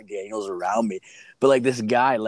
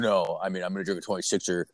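low monotone; 3 semitones lower than usual. Retold or imitated. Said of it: "this low monotone dude".

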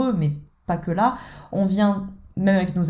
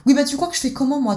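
higher, pleading whine; whiny submissive wife; 5 semitones higher than usual. Acted. Wife pleads with her husband that she is worn out, higher whine. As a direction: plead your tiredness like a child. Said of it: "Madame s'est mise dans l'enfant soumis".

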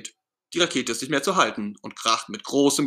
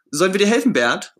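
high, louder call up to the rocket top; 7 semitones higher, 6 dB louder than usual. Acted. Friends calling up to Bert on top of the rocket. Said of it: "rufen seine Freunde".

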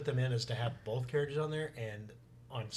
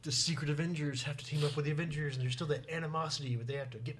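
epic trailer narrator voice, a touch raised; movie trailer voice; 4 semitones higher than usual. Pretend. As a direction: announce it like a blockbuster teaser. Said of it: "Is that, like, your movie trailer voice?".

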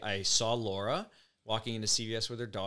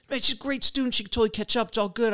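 imitating Dave; 11 semitones higher than usual. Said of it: "He's like".

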